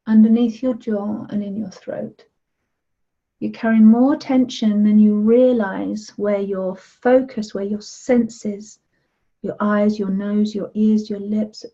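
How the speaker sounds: slow, soothing guidance round the face; calm guided relaxation voice; guided meditation. Acted. Leads a body meditation.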